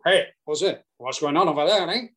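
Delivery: put-on Spanish stroke Yorkshire accent; Sevi. Caddie retelling Sevi ordering his partner about, Spanish-Yorkshire accent. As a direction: imitate a Spanish golfer through a Yorkshire accent. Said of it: "your Spanish stroke Yorkshire accent".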